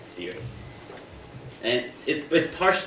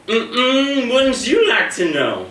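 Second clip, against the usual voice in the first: much higher and louder, slow teasing sass; sassy Siri voice; 14 semitones higher, 9 dB louder, much slower than usual. Retold or imitated. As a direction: tease him like a diva who won't tell. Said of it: "in her most sassiest voice that I've ever heard".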